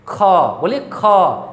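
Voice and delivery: ख pushed out with a strong h breath; breathy demo of ख; aspirated kh. Shown as a demonstration. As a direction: let the air burst out on ख. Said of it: "घसट्टा मार करके".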